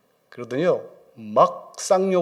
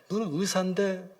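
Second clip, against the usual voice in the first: lightly acted weeping appeal; tearful pleading; 5 semitones higher than usual. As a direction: plead through mock tears. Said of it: "우시는 거예요".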